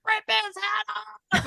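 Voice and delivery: slow, high mock ringside yell; fan yelling at a fight. Mom at son's boxing match, mock ringside yell. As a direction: yell it like a mother losing her mind at ringside. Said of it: "I lose my mind".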